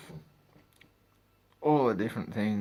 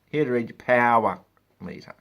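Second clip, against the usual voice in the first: announcing himself; 3 semitones higher, 9 dB louder than usual. Retold or imitated. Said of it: "I specifically say every single time".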